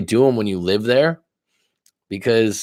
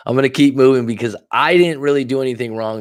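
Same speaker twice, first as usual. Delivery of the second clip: whispered through a laugh; 4 semitones higher, 4 dB louder than usual. Real, not acted. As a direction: breathe it out, amused. Laughing aside, unvoiced.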